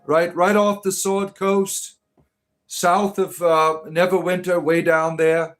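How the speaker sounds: emphatic mock-fantasy Waterdavian accent. Streamer correcting a viewer about his accent, Waterdavian accent. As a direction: proudly insist in a Waterdavian accent. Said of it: "That is my accent".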